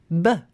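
voiced short "b" sound; isolated B sound. Shown as a demonstration. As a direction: say "b" alone with the throat vibrating. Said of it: "difference between the".

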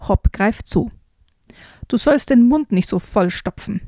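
put-on lively read-aloud for children; storyteller reading a frog tale aloud; story reading. A narrator's reading. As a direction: read it like a bedtime book.

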